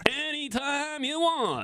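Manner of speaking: high, slow hammed-up DJ voice; mock late-night DJ, slow and drawn out; Wolfman Jack voice. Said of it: "I should be like Wolfman Jack".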